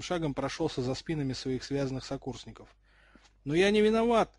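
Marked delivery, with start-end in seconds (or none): 3.4-4.3 loud, high protest; sudden exclamation. A narrator's reading. Jerry suddenly protests that he is innocent, exclaiming. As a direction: burst out in defence, pitch jumping up. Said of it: "внезапно воскликнул Джерри".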